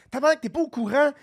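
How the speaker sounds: mildly indignant retelling; a touch of offended disbelief; retold outrage. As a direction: replay your outrage, only half heated. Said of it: "j'étais comme outré".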